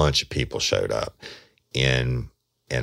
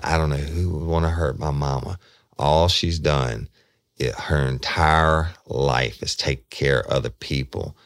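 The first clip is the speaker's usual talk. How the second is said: retold crying; 3 semitones higher than usual. Crying daughter telling the detective about her mama, lightly imitated grief. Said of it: "she's crying, y'all, when she's telling me this".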